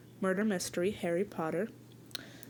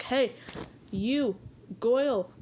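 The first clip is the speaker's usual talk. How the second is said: loud call across the room, a bit higher; 4 semitones higher, 3 dB louder, slower than usual. Pretend. Confronting suspect Goyle in the common room, loud call. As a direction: hail him sharply and loudly.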